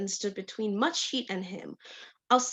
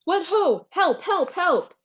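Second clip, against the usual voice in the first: high, loud shouts for help; hidden shout; 7 semitones higher, 7 dB louder than usual. Acted. Polonius hidden, shouting for help in alarm. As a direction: yell out from behind the curtain. Polonius cries out behind arras.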